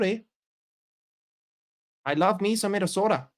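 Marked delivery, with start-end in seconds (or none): 2.0-3.3 put-on Minnesota accent. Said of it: "and you talk like this".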